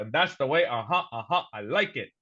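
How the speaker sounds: quoting catchphrases in a low mock voice; Goldmember. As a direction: lightly imitate a film character, dropping low. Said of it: "he's, he's gold member".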